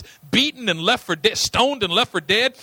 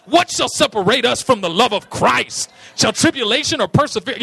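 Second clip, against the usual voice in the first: loud rapper shout; a rapper's voice; 3 semitones higher, 6 dB louder than usual. Retold or imitated. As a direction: belt it like a rapper rapping. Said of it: "his rapper voice".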